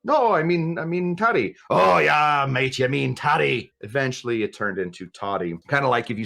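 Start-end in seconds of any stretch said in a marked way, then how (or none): 0.0-1.6 playful imitation of a Scottish accent; Scottish accent with toddy said flat and short; mock Scottish accent. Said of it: "with that accent". 1.7-3.7 playful imitation of a Scottish accent; Scottish accent with toddy said flat and short; mock Scottish accent. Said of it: "with that accent".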